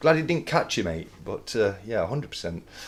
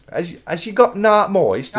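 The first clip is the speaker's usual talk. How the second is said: high, loud broad Bolton quip; Peter Kay impression; 11 semitones higher, 7 dB louder than usual. Quoting Peter Kay's catchphrase to Griff, broad northern. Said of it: "as Peter Kay would say".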